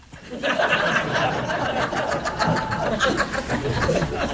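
long breathy laugh; amused wheezy laughter. Real, not acted. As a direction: let the laugh roll on, light and airy. Laughing at sisters' reaction.

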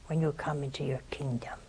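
soft whispered plea. Acted. Thief begging Jesus from the cross, whispered.

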